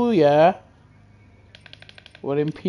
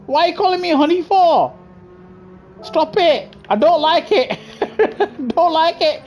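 mock whiny protest; 7 semitones higher than usual. Annoyed reply to chat.

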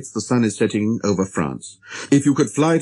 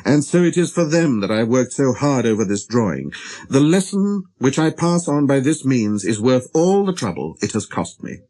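ordinary delivery, nothing marked

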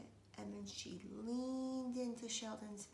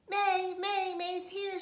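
high, loud gleeful shout; loud excited yell; 10 semitones higher, 11 dB louder, slower than usual. A narrator's reading. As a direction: call it out the car window, thrilled. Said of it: "she shouted through the open window".

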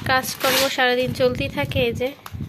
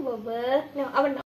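laughing coax; 6 semitones higher, 7 dB quieter, faster than usual. Real, not acted. Coaxing toddler, laughing.

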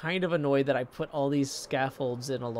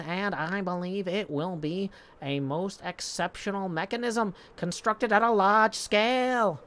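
mock show intro. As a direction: announce your show with playful pomp, stretching the last words. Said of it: "I'd be like".

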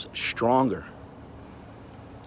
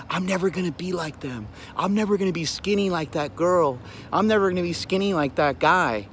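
mock self-pity, pitched up; self-pitying complaint; 5 semitones higher than usual. Anxious people comparing themselves to others, mock self-pity. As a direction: imitate a defeatist complainer, higher voice.

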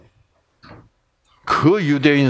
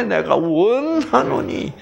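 solemn reading; 6 semitones higher, slower than usual. Acted. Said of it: "너무 엄숙하게 읽지 마세요".

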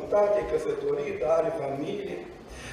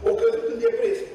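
"căzut" lifted way up, pitch much higher; high emphatic repeat; 12 semitones higher than usual. Real, not acted. Preacher repeating to the congregation that she fell into depression, pitched high. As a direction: cry out the repeat high, to drive it home.

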